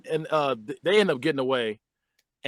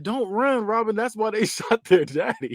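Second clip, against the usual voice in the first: half-hearted high imitation, drawn out; milder retold yell; 5 semitones higher, slower than usual. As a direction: repeat her warning as a restrained mock yell. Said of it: "How you just yell something out like that".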